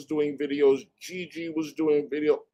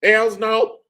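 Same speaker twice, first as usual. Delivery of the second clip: higher, louder sassy refusal; mock attorney; 7 semitones higher, 6 dB louder than usual. Mocking the attorney's final answer, sassy. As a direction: snap it off with sass. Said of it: "And she said".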